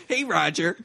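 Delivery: mock whiny Japanese accent, lightly done; a thin, whiny Japanese-accented voice. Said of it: "just a whiny Japanese voice?".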